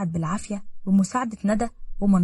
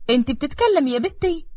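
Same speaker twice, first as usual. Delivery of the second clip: higher, startled question; shocked disbelief; 7 semitones higher, 4 dB louder than usual. Acted. Mother stunned her mute daughter-in-law talks, disbelieving. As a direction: gasp it out, can't believe she speaks. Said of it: "بصدمة وهي مش مصدقة".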